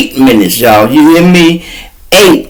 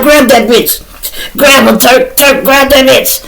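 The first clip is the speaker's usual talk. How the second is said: urgent yell; 10 semitones higher than usual. Retold or imitated. Yelling at friend to catch her.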